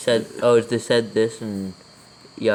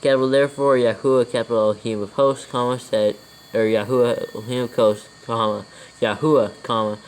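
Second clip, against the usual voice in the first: dictating. Real, not acted. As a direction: read it out word by word for copying. Dictates scripture with punctuation.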